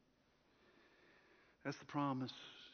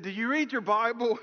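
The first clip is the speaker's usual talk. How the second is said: higher, louder teasing question; amused retort; 6 semitones higher, 6 dB louder than usual. Retold or imitated. Old shepherd laughing at the student, amused question. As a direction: ask it through amusement. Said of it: "old gentleman started laughing".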